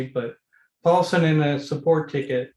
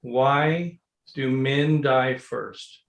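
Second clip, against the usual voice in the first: slow, drawn-out setup line; slow joke setup; much slower than usual. Shown as a demonstration. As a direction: hold back the punchline, slowly. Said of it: "I'm gonna tell you a joke".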